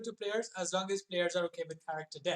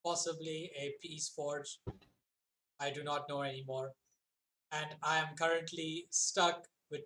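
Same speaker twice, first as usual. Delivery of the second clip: flat, level warforged drone; monotone robot voice; 4 dB quieter than usual. Acted. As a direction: speak like a machine, no melody. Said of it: "that monotone voice".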